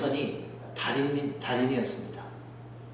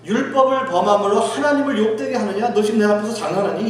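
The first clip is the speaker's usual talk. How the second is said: higher-pitched, indignant divine rebuke; acted-out reproach from God; God rebuking; 3 semitones higher than usual. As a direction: scold them as God would. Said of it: "하나님께서는 그들에게 이렇게 말씀하세요".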